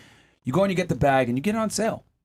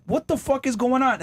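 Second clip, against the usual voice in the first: baffled; 7 semitones higher than usual. Retold or imitated. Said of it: "You're like".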